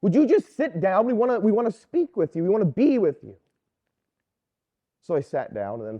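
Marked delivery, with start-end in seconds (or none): 0.0-3.4 a louder, higher, pleading fuss; a parishioner lightly voiced, insisting he sit down; mock-fussing lady tugging the waiter over; fussing church lady. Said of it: "she kind of was fussing at me".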